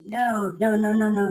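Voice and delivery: high, hushed string of noes; nervous refusal. Retold or imitated. Kid answering the plan to leave, high nervous hush. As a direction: imitate a young recruit refusing, high and hushed.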